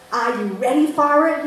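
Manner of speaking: put-on Boston accent. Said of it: "calls out in a strong Boston accent".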